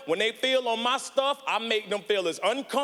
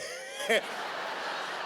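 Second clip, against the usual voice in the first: goose honk imitation; 7 dB quieter than usual. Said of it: "They sound like Canadian geese".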